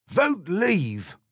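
high, emphatic slogan cry; fox debater. A narrator's reading. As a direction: call it out like a campaigner. Fox's slogan in heated debate.

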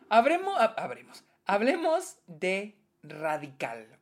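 hiccuping between words; with hiccups. Real, not acted. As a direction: talk through hiccups. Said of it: "me dio hipo".

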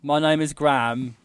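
mock British introduction; British accent. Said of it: "a British accent".

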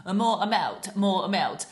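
put-on childish whiny calls; kids calling. Mother imitating her kids' bedtime demands, whiny. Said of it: "up and down the stairs".

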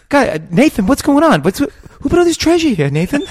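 high, loud whiny question. Retold or imitated. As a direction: whine in helpless confusion. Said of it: "he hasn't got the voice".

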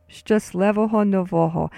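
"Szczęśliwego Nowego" as shchus-LEH-vo-ho no-VO-ho; joined-words demo. Shown as a demonstration. Teacher repeats the joined words, "Szczęśliwego Nowego" modelled in Ukrainian. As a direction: repeat "Szczęśliwego Nowego" as one even phrase. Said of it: "put it together with the first word".

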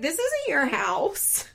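high, loud mock outrage; retold indignant yelling. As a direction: imitate a woman yelling back in disbelief. Retold shouting match, Rachel yelling back.

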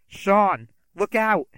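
high, loud panicked scream; screaming warning. Acted. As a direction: yell the warning in alarm. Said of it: "Violet screamed".

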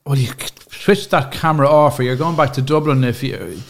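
a lightly voiced cross mammy; scolding Irish mammy. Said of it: "she'll tell you".

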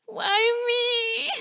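high, whiny fake wail; hammed-up woe-is-me cry; mock self-pity. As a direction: wail it like a sulking teen. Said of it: "I really had a lot of self-pity".

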